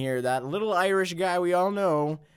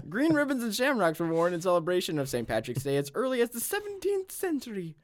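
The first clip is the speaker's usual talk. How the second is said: hammed-up Irish accent, much higher, laughing; terrible Irish accent; 8 semitones higher than usual. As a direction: overdo the Irish brogue. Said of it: "That was, that's a terrible accent".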